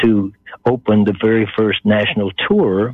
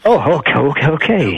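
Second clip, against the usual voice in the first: higher, tumbling repeated agreement; flustered excitement; 5 semitones higher than usual. Retold or imitated. Actor hearing which film he may test for, flustered. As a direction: act out being bowled over, pitched up. Stunned at hearing the film's name.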